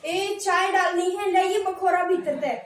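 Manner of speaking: casual Haryanvi kitchen call; Haryanvi village talk. Retold or imitated. Village woman asking for a glass for tea. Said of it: "देहात के जो area".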